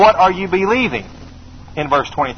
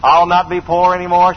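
defiant vow. Retold or imitated. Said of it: "Gone with the Wind famous statement".

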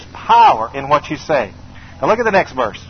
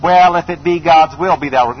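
mock timid hedge. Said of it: "no, he says".

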